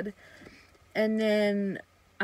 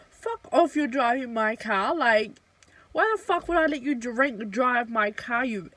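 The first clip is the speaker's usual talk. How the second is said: angry retort; 2 semitones higher, 3 dB louder than usual. Retold or imitated. Refusing the drunk fling her car, angry retort. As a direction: snap back at him, furious.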